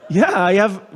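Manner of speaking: real laughter through yeah, I have; owning up with a laugh. Real, not acted. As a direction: laugh it out, a bit sheepish. Laughing at own admission.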